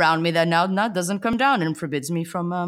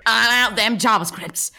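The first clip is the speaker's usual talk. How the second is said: slow, louder put-on tech bro; mock developer voice; 4 semitones higher, 5 dB louder than usual. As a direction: drawl it like a smug coder. Slow mock voice joining bit.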